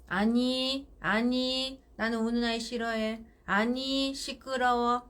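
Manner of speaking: steady, even-toned firm refusal; firm, emotionless. Shown as a demonstration. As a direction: repeat the limit evenly, keep emotion out. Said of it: "이렇게".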